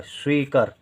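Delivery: "स्वीकर" with a short second vowel. Shown as a demonstration. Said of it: "बड़े आ की मात्रा". ("स्वीकर" में क को छोटा, बिना आ के)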